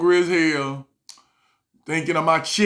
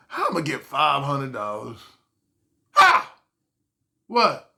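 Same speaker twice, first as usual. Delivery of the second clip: shocked; 3 semitones lower than usual. Retold or imitated. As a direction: squeal it in disbelief. Shocked at the price.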